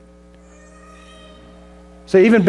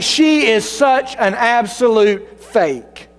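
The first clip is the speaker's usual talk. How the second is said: slow, drawn-out sneering churchgoer; scornful slow churchgoer voice; judgmental sneer; 4 semitones higher, much slower than usual. Acted. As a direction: stretch each word out like a petty gossip. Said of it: "We, we might think".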